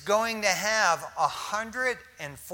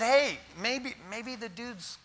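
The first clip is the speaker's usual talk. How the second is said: mocking taunt; 4 semitones higher, 6 dB louder than usual. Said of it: "He said".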